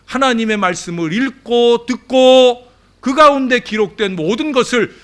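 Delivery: high, loud scriptural declaration; forceful preaching. Real, not acted. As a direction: hammer out each condition to the congregation. Preaches verse at full force.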